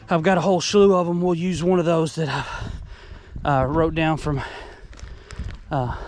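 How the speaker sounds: winded after a trot through the woods; out of breath. Real, not acted. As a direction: talk while catching your breath, out of breath. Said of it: "sorry, I'm out of breath here".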